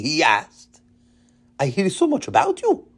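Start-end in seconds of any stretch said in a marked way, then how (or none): 1.6-2.9 put-on Israeli accent. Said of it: "in his heavy Israeli accent".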